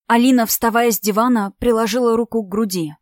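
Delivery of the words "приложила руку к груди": ordinary delivery, nothing marked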